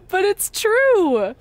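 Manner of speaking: slow, high, giggling through the words; laughing it's true; laughing insistence. Real, not acted. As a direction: insist while laughing at yourself. Laughing at own cheesy line.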